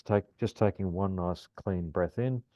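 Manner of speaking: calm grounding exercise. Shown as a demonstration. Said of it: "in four breaths".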